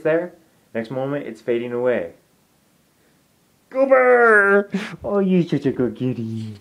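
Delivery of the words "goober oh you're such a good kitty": high, loud call across the room; calling the cat. Real, not acted. Calling out to her cat Goober, high and loud. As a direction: shout the cat's name, much higher and louder.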